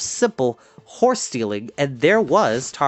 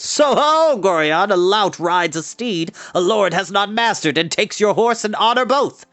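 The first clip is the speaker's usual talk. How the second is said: much higher and louder jeering cry; mocking call; 6 semitones higher, 4 dB louder than usual. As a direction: taunt the lord across the crowd. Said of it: "a rough laugh as one of them called".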